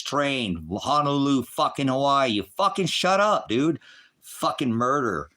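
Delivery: loud, high, cursing tirade; real furious rant. Real, not acted. Streamer yelling at a viewer he calls a murderer, furious. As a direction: let real rage boil over at him. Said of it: "I'm frustrated".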